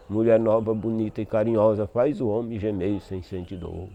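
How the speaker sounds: measured cordel verse; poem recital. Acted. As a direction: recite it like a sung stanza. Recites a ten-syllable stanza. (recitação de verso de cantoria)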